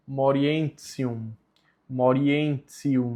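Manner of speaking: morientium slow, ti said as tsi, ending tsium; morientium, ti sounded like tsi; church Latin pronunciation. Shown as a demonstration. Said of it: "mesma coisa".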